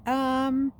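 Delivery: smirking tease; laughing. Acted. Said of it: "laughing again".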